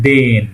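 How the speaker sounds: "দেন" said with a soft consonant; soft consonant demo. Shown as a demonstration. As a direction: model the soft sound in "দেন". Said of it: "sound একটু নরম হবে".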